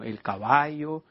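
slow, drawn-out el caballo; teaching slowly; slow example word. Shown as a demonstration. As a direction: stretch out caballo slowly for the class. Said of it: "Así como cuando termina algo con o".

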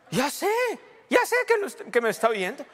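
defiant shout. Retold or imitated. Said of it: "reply to scared leaders".

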